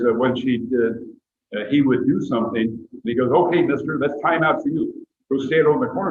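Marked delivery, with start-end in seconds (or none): 3.3-6.1 louder, higher mock parental order; acted telling-off of a naughty child; stern time-out order. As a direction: lay down the law like a fed-up parent.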